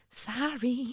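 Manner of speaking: eerie, unsettling, creepy man's voice. Retelling what an intruder in the bedroom said: imitating a creepy voice. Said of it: "the man's voice was so creepy".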